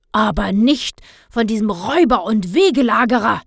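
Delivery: put-on cranky old man scolding about the ice cream prices. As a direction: give the robber price a grumpy tongue-lashing. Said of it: "schimpfte Herr Blauberg".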